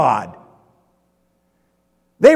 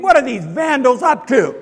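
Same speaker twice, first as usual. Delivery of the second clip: indignant Romans; 5 semitones higher than usual. Retold or imitated. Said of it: "all the Romans think".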